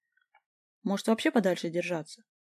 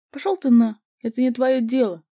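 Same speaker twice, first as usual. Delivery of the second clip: much louder, higher angry snap; snarling retort; 4 semitones higher, 9 dB louder than usual. A narrator's reading. The guy snarls at the narrator to butt out, loud. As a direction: bite back hard. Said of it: "огрызнулся парень".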